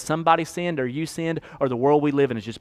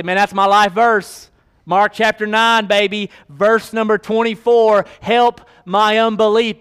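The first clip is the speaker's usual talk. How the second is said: a hint of mock boasting, slow; lightly voiced mock pride; imitating a proud believer; 7 semitones higher, 8 dB louder than usual. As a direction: play the brag of a tattooed life verse. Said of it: "Never seen anybody say".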